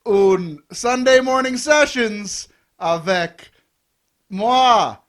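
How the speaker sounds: broken French in a hammed-up French accent; a bad French accent, on purpose; mock French accent. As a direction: stretch out the French slowly, French-accented. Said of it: "a Kevin Bennett slash Francois accent".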